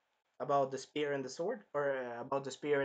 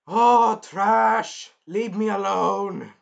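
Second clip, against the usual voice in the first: loud, higher exasperated shout; mock yell; 4 semitones higher, 12 dB louder, much slower than usual. The hero yelling at the king to leave him alone. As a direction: shove the words back at him.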